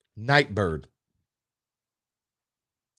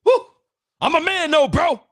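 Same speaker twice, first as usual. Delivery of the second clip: much higher, brushing off the tears with a laugh. Real, not acted. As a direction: joke away the choked-up moment. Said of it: "I'm gonna get choked up".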